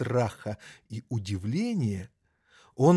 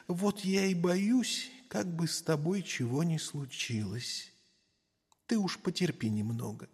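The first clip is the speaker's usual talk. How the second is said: мама-кошка; 5 semitones higher, 7 dB quieter than usual. Acted. Мама-кошка говорит с котёнком.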